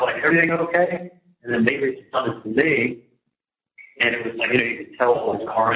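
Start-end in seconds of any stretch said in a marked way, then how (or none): 0.2-1.1 retold call out the window, pitched higher; mild retold yell from the window. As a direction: call out to people outside, not a full yell. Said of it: "like, yelling out".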